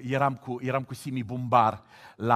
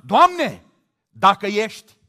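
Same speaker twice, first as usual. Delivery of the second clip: loud, higher half-hearted prayer; doubting prayer, mocked; 6 semitones higher, 11 dB louder, slower than usual. A doubter praying to God, mock. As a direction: pray with a doubtful if. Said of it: "ce contrast".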